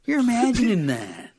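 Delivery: high-pitched, disbelieving dismissal; hammed-up exasperation, voice climbing; mock incredulous. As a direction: act baffled that anyone could think it. Acting out a dismissive friend.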